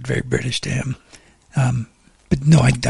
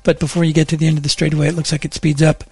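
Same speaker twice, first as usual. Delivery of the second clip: steady, practised radio traffic delivery; traffic report read. Acted. Reporter updating Monterey Bay drivers on delays, traffic report read.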